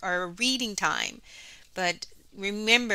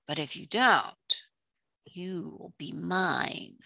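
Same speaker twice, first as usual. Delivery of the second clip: scheming sea witch. Acted. Sea witch offering Ariel a deal, scheming. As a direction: lay down the bargain with menacing pauses.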